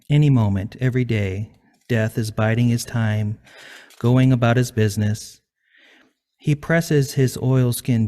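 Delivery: measured, understated recital with falling line ends; poetry reading. Acted. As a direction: read it evenly, letting each line settle. Host reads own poem.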